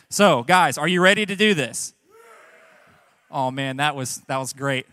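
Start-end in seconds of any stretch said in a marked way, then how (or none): 0.1-1.9 loud rally cry to the crowd; hype shout. Real, not acted. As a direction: pump up the room, shouting. Pastor fires up the guys.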